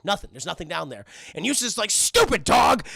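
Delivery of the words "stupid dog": loud mock-angry scolding; higher, exasperated cartoon grump; mad old owner. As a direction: snap at the dog, hammed up. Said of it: "And he's very mad".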